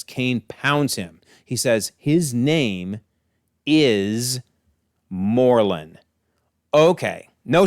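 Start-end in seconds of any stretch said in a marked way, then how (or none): 2.0-6.0 drawn-out reveal with long pauses; slow, suspenseful name drop; dramatic reveal. Retold or imitated. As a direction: stop before each word, dropping on the name.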